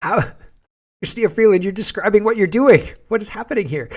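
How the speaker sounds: indignant shout at Freeland; outraged shout. Real, not acted. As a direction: call her out in disbelief. Outraged reaction to Freeland clip.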